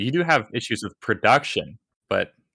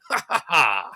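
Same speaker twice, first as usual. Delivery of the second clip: evil cackle; 4 semitones higher than usual. Retold or imitated. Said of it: "cackling maniacally".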